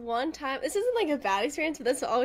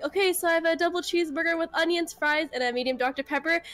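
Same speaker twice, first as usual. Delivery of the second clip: slightly raised order-taker voice; customer-service voice; 3 semitones higher than usual. Shown as a demonstration. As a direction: read the order back in a nice service voice. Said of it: "this is me in In-N-Out mode".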